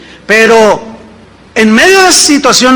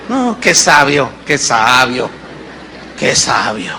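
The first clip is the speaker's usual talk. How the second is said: sarcastic praise; 9 semitones lower, 4 dB quieter than usual. Acted. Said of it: "¿Eso es sabio?".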